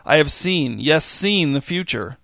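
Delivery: fortune teller. Acted. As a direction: announce the vision grandly. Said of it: "he announced".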